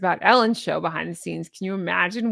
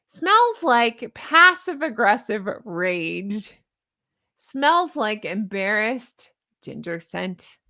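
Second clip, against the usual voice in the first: mock label read; slower than usual. Shown as a demonstration. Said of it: "reads candle labels slowly".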